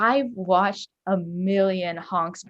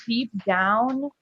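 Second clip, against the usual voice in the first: laughing, slow; 4 semitones higher, 5 dB louder, much slower than usual. Real, not acted. Interviewer laughing while consoling.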